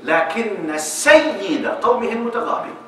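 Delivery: slow, measured poem recitation; slow classical verse recital; recited verse. Acted. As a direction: declaim the line slowly like poetry. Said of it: "قال".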